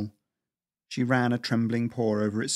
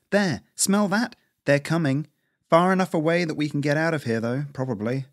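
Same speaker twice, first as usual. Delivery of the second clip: put-on lightly higher, tense young squirrel; 5 semitones higher than usual. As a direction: warn in a hushed, wary squirrel voice. Lisa senses the rats.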